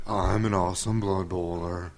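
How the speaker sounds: slow, low lightly voiced brute; Crom voice. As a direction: drawl it like a lumbering orc. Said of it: "Crom voice".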